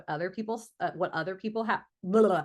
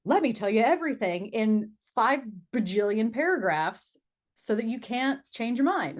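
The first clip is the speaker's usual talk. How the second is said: over-explaining; 4 semitones higher, 5 dB louder than usual. Acted. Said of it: "start to over-explain".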